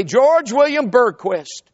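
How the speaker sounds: slow, solemn lodge chant; drawn-out ceremonial recital; Masonic ritual recitation. Retold or imitated. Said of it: "they begin to say".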